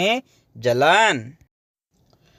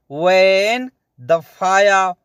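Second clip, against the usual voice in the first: slow repeat; slower than usual. Shown as a demonstration. Teacher repeating the Arabic slowly for learners. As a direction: stretch out वैन दफाया so students catch it.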